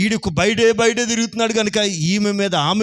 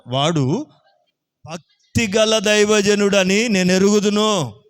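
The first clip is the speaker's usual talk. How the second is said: voicing the wife; 3 semitones higher than usual. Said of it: "ఆమె అంటది".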